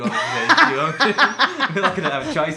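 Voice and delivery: words broken up by laughter; laughing. Real, not acted. Teased about his own voice.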